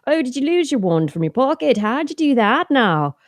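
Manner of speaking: lilting put-on Irish character; Irish accent. Mother reading Harry Potter to her son, put-on Irish accent. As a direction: scold Harry in a playful Irish lilt. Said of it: "The Irish accent".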